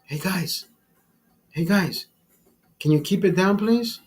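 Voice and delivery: polite request. Retold or imitated. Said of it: "I told the people".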